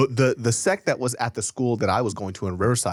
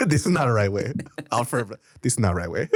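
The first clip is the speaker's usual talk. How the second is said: imitated Korean accent.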